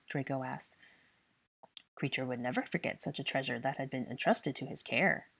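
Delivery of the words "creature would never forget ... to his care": proud. Acted. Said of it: "the house elf said proudly".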